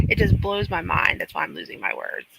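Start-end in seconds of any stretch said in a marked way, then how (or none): 0.0-1.2 breaks into a disbelieving laugh, pitch jumping much higher; incredulous laugh then high exclaim; laughing in disbelief. Real, not acted. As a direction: laugh it out, can't believe it.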